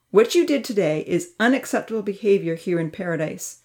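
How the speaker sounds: stern verdict; firm. Acted. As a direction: set the rules with no room to argue. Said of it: "said firmly".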